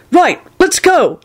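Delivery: high, slow, cheery agreement; cheerful. A narrator's reading. Neville agreeing to leave with Elizabeth, high and cheerful. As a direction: bounce into it happily. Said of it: "he said cheerfully".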